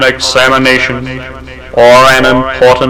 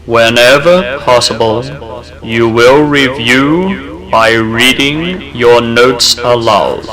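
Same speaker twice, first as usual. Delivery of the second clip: measured, soothing guidance for a listener studying; calm suggestion read. Acted. Narrator guiding a student's study habits, calm and steady.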